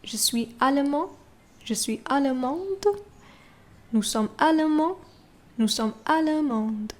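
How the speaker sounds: allemand nasal, allemande with final d; careful demo; French pronunciation. Shown as a demonstration. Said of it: "can you hear the tiny difference".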